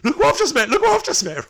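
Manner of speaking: overexcited squeal to the wife; giddy boasting. Retold or imitated. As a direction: show off like a thrilled kid. Retold excited boast to wife.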